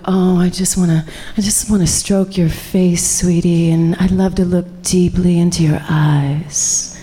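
mock romantic sweet talk, lingering on the last words. Teacher gives the workshop an example of romantic talk, mildly sweet and romantic. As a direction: pretend to woo a sweetheart. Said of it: "there's romantic talk".

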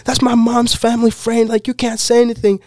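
put-on high-pitched kid voice; Hunter Piggott. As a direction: imitate a kid rushing in to protest. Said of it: "this kid, Hunter Piggott, runs out of nowhere".

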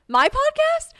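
very high, loud incredulous question; re-enacted astonished shriek; shocked. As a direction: squeal it in disbelief. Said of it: "like, so shocked".

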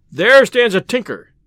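high, ringing storybook announcement; loud declaration. Acted. Robin denounces the tinker to his men, loud declaration.

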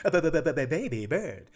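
stuttering on the b; repeated b sounds, stuck. Real, not acted. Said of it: "especially with my stutter".

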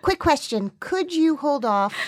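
high, giddy self-important phone voice; mock bragging. Host imagining the actor calling the guild, mock bragging. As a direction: play up the big news, pitched high.

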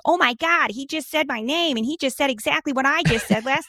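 high-pitched, excited mock crowing; Nick Fuentes. Podcast guest imitating a streamer bragging he was copied, high mock excitement. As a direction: put on a high, gleeful bragging voice. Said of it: "That was my Nick Fuentes impression".

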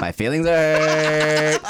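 slow, through laughter; mock-hurt while cracking up; laughing. Real, not acted. Joking about hurt feelings, laughing.

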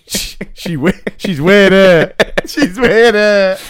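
a puzzled dad in a hammed-up voice; mock dad muttering. Dad's thoughts voiced.

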